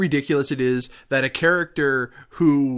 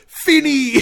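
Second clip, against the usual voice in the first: high, louder yelled name, laughing through it; mock yell; 9 dB louder than usual. Retelling Robinson yelling at the zombie, loud and high through laughter. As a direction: holler it at the oncoming zombie. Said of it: "he goes".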